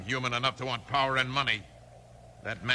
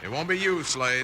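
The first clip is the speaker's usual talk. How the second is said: menacing retort; 2 semitones higher, 4 dB louder than usual. Acted. Villain threatens his henchman.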